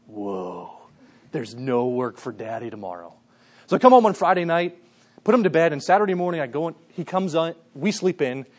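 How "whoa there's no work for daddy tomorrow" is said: amazed little son. Retold or imitated. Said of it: "and he's like".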